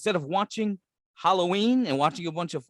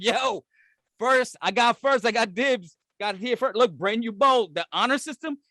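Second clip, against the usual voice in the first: put-on higher, eager kid shouting dibs; 5 semitones higher than usual. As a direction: play an excited kid. Kid voice claiming bowl.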